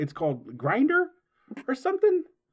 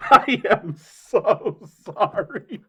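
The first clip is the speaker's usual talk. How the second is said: very slow, higher and louder, breaking up with laughter; louder laughing apology; 4 semitones higher, 5 dB louder, much slower than usual. Real, not acted. Repeating the apology to the others, laughing harder. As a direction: force each word out over real laughter.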